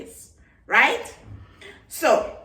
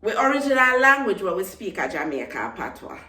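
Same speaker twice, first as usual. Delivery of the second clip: quick Jamaican Patois phrasing, a bit faster; faster than usual. Shown as a demonstration. Explaining her culture to viewers in Jamaican Patois. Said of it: "I'm going to say that in Patois".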